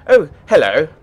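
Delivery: loud, upper-class surprised hello; surprised greeting. Acted. Artificer looks up from his work at a visitor, surprised. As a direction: burst out as if caught unawares.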